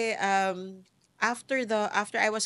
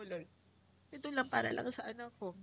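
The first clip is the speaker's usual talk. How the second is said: pleading prayer; 4 semitones higher, 8 dB quieter, faster than usual. Retold or imitated. Retelling prayer to God.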